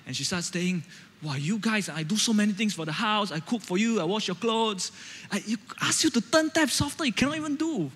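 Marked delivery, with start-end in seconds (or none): 1.2-7.9 lightly voiced aggrieved mother; a hint of a hurt, complaining mom; annoyed mom. Mom listing her chores to her son, mildly aggrieved. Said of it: "my mom gets really annoyed".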